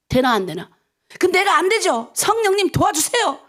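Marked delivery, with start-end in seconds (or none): 1.2-3.4 higher-pitched appeal for help; pleading prayer. Shown as a demonstration. Preacher models asking the Spirit for help, earnest pleading. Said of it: "그러라고 아침에 새벽 기도하죠".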